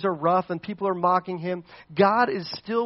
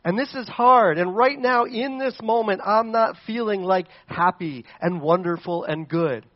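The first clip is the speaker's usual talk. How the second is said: overwhelmed cry to God; 6 semitones higher, 6 dB louder than usual. Acted. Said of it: "He's like".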